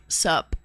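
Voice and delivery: "Sup." said low and clipped as a greeting; laid-back greeting "Sup."; casual "Sup". Shown as a demonstration. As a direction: drop a low, lazy "Sup.". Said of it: "we just say".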